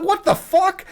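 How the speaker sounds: high, laughing outburst of disbelief. Retold or imitated. Retelling the professor's snub, laughing in disbelief. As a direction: squeal it out through a laugh. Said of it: "And I was like".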